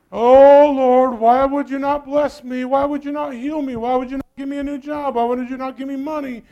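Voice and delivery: a hammed-up complaining plea, opening loud on Oh Lord; mock whining prayer. Preacher mocking a believer who whines to God. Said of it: "and you start pouting".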